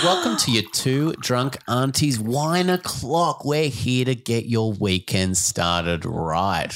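slow show-host welcome; announcer intro. Acted. Podcast intro read.

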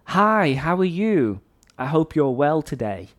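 neat standard British English, polite and even; classic English. Shown as a demonstration. Teacher showing students the clear standard English greeting. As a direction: say it the textbook way, clear and proper. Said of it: "So in classic English, I might say".

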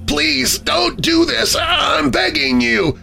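very high, slow, crying-out plea; desperate high-pitched wail of words; whimpered begging. A narrator's reading. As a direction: beg for mercy, stretching each word high. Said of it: "please don't whimper like that".

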